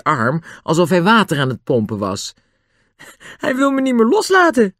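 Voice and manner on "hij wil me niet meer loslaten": high-pitched, amused exclamation; laughing protest, pitched high. A narrator's reading. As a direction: say it through laughter. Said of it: "zei George lachend".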